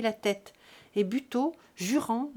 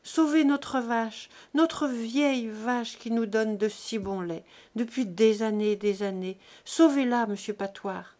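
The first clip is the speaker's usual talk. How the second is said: pleading; 4 dB louder than usual. Acted. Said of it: "dans la même supplication".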